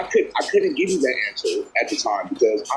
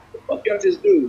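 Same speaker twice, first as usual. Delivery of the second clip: shocked outburst. Retold or imitated. Retelling his shocked reaction.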